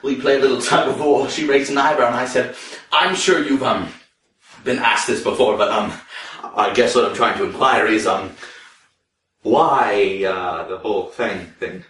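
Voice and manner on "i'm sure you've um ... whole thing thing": low, halting, fumbling question; awkward hesitation. Acted. Customer timidly asking a cashier about her fangs, low and hesitant. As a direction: stall with ums, easing toward the question.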